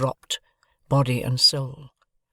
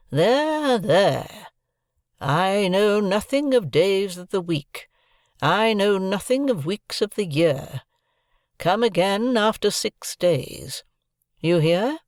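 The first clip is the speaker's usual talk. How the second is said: impatient; 7 semitones higher, slower than usual. A narrator's reading. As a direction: brush him off, impatient. Havisham cuts Pip off impatiently.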